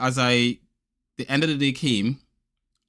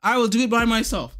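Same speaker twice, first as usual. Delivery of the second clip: mock upset; 9 semitones higher, 5 dB louder than usual. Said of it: "I was really upset".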